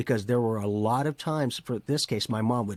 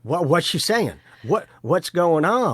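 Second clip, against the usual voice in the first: confused churchwoman; 6 semitones higher, 7 dB louder than usual. Retold or imitated. Host voicing confused churchwoman.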